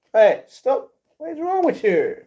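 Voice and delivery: high mock-exasperated scold at the pet. Real, not acted.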